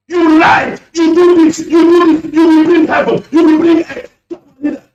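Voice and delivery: loud accusing rant, each clause pushed harder; angry rant. Real, not acted. Caller on radio accusing opponents of betraying leader, angry loud rant. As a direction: hammer the accusations at opponents on air.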